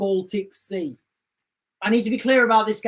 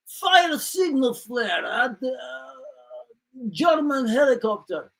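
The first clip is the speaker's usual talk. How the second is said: mock Russian order; slower than usual. Acted Russian sailors relaying orders.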